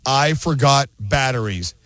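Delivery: slow, ominous ad read; slow, ominous commercial voice-over. Acted. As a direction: draw it out like the scariest words of the year. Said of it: "three scariest words you can hear".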